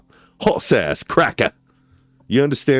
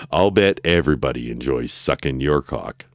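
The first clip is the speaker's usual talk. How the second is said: whispered through giggles; 5 semitones lower than usual. Acted. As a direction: whisper it while cracking up.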